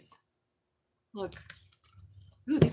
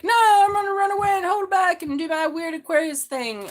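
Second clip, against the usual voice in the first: higher, louder mock-defiant whine; mock stubborn Aquarius; 9 semitones higher, 8 dB louder than usual. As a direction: play the stubborn sign, hammed-up. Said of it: "And you're like".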